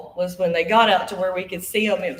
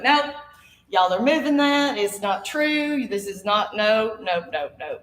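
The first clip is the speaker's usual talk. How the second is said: mock stubborn refusal; 3 semitones higher, slower than usual. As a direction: play the stubborn boy who won't budge. Boy refusing the seance dare.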